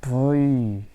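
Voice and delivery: loud startled cry of brother; real scared shout; panicked yell. Real, not acted. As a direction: yell out in fright. Monster catches him, yell.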